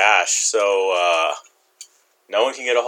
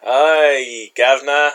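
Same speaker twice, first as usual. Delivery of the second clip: put-on British accent; much slower than usual. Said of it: "Say it with a British accent".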